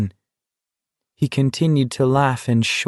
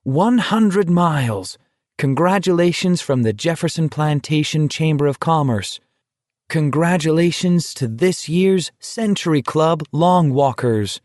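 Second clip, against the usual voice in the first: higher-pitched proclaiming read; banner proclamation; 5 semitones higher than usual. A narrator's reading. Banner greeting the walkers at one hundred miles, proclaimed. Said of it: "banner that proclaimed".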